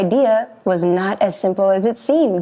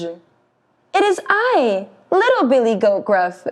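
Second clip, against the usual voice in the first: small goat voice; 3 semitones higher than usual. Acted. Little goat answers troll.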